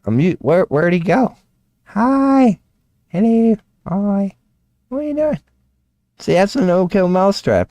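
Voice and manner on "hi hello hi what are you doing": very high falsetto cooing to a pet; cutesy pet talk. Real, not acted. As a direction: coo hello at a tiny animal, high up. Cooing at the returned mouse.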